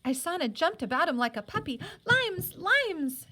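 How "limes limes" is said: high, loud squeal of joy over the limes; excited cry. A narrator's reading. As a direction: squeal like a thrilled little girl. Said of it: "she cried".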